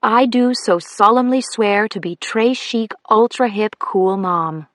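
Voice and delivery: lightly mock-solemn swearing; mock solemn oath. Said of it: "I raised my right hand".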